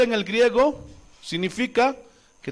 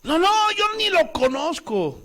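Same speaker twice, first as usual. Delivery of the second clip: frantic denial; 10 semitones higher than usual. Retold or imitated. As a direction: deny it in a rush of fear.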